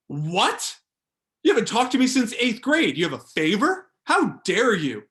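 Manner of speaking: put-on loud, high, indignant old coach yelling; the coach snapping back at a former player, outraged; offended coach outburst. Old basketball coach yelling at a former player for calling. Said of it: "He's gonna be like".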